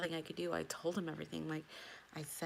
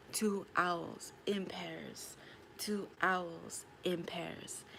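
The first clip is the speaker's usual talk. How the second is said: slow awed whisper; much slower than usual. Real, not acted. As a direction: breathe the words out slowly, in awe. Awed repeat of owl sighting.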